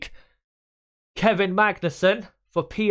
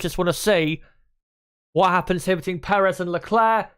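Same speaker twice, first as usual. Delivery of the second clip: rising excited race call; motorsport commentator; 5 semitones higher than usual. Real, not acted. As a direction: build the tension as he closes. Leclerc chasing Perez, rising tension.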